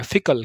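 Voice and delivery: फिकल said as FEE-kal; Hindi-style "fee" start. Shown as a demonstration. Teacher showing students an easy reading, फिकल as FEE-kal. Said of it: "बस आपको फी लगाना है".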